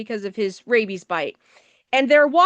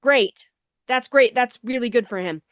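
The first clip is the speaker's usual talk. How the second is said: dry sarcasm. Acted. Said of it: "And I'm like".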